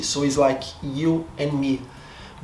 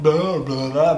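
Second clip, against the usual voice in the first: mumbling blah blah; 3 dB louder than usual. Shown as a demonstration. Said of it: "I sound so, like".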